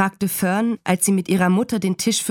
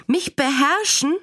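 put-on high, indignant child's retort; acted outrage carried by pitch, not volume; empörter Aufschrei; 7 semitones higher than usual. A narrator's reading. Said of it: "schrie Fern". (kindlich empört nachgefragt)

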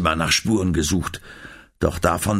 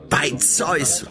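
horrified cry; 8 semitones higher than usual. A narrator's reading. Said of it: "rief er entsetzt".

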